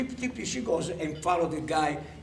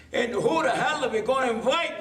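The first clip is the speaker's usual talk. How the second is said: high incredulous retort; raised-pitch comic disbelief; 6 semitones higher, 3 dB louder than usual. Acted. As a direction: throw it back as an exasperated punch line. Punch line, incredulous retort.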